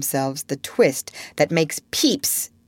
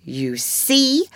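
mildly self-satisfied, slightly raised pitch; complacent; 4 semitones higher than usual. Acted. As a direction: explain it as one who knows. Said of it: "Wendy said complacently".

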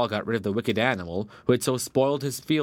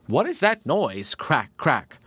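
higher, slow, wondering question; puzzled badger; 5 semitones higher, 3 dB louder, slower than usual. A narrator's reading. Badger asking the rabbit about the noise, puzzled. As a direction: ask about the strange noise.

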